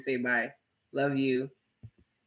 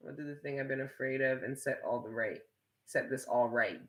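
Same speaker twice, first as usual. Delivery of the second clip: reading the comment much softer, half to herself; quiet reading; 12 dB quieter than usual. Shown as a demonstration. Streamer reading Jacob's comment aloud, much softer murmur. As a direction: mutter the viewer's line back softly. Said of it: "You know what you just sounded like?".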